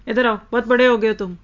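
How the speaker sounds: mock-scolding parent, बड़े hit hard; mocking taunt. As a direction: taunt the child for acting grown. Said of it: "मुझे इस तरह बोलना भी अच्छा नहीं लगता".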